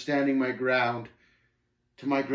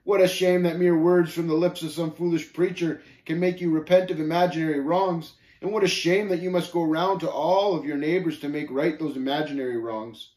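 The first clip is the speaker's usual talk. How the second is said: louder, higher mock pity; scornful Shame, sneering; 6 semitones higher, 6 dB louder than usual. Shame ridiculing the pilgrim's repentance, sneering. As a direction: belittle with emphatic scorn.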